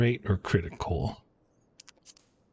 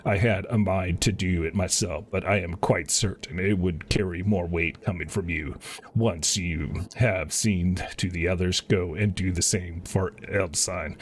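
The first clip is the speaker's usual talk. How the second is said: lightly voiced commander, a little lower and measured; earnest officer; 3 semitones lower than usual. A lightly voiced officer asking the hero to rally the troops, measured. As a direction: read it as a polite officer asking a favour. Reads officer's game dialogue.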